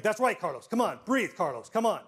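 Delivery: a loud, pleading "come on"; will him to keep breathing; urgent encouragement. Retold or imitated. Principal urging the dying custodian to breathe, pleading.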